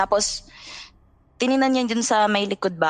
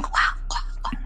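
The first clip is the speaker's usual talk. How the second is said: imitated duck quack; 4 dB quieter than usual. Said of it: "alam mo yung sound ng mga itik".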